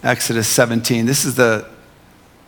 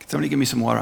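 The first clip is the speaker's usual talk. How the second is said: joking request; 5 dB quieter, much faster than usual. Pretend. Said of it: "I'm only kidding".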